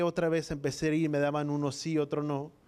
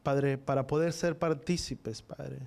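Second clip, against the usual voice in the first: measured, earnest prayer voice, slower in places; congregational prayer. Acted. Pastor praying over the congregation, earnest prayer voice. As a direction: pray it out to the Father with devotion.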